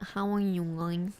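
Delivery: stuffy nasal greeting; blocked nose. Shown as a demonstration. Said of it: "I'm like".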